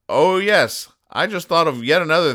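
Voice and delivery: put-on high loud old lady exclaim; high grandma. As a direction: lift it like a chirpy granny. Quoting grandma.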